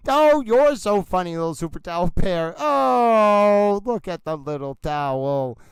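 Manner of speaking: lightly voiced cute plush bear, cooing; voicing the towel bear. Streamer voices the bear's teasing, cooing lightly. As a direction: coo it like a fond little plush toy. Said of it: "and he's like".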